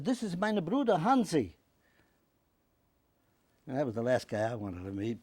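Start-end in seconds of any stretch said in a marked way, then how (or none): 0.0-1.5 put-on a higher, louder German-accented introduction; mock German accent, higher and louder. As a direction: present your brother proudly in a German accent. German woman introduces her brother.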